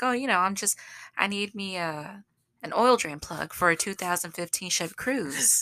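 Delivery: folksy phone-call country accent. Shown as a demonstration. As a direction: ease into a friendly country accent for the parts store. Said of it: "So how I would talk on the phone".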